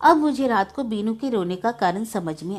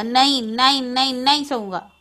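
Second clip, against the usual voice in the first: put-on crying child; 3 semitones higher, 3 dB louder than usual. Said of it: "जोर जोर से रोने लगा".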